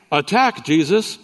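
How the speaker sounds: parrot's command. Retold or imitated. Parrot orders the Doberman to attack the burglar, mock command. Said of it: "the parrot says".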